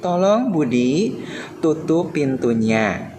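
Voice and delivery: slow, kind asking tone; polite gentle request. Shown as a demonstration. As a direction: ask nicely like a patient teacher. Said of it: "nada atau intonasi ucapan yang sopan, lemah lembut".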